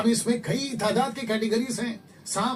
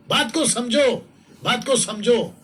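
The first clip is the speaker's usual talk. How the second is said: full-force preaching; 3 semitones higher, 5 dB louder, slower than usual. Real, not acted.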